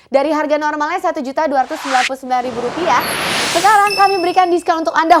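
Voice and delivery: hard-sell TV shopping pitch; infomercial. Acted. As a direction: push the deal, eager and urgent. (gaya iklan jualan yang bersemangat)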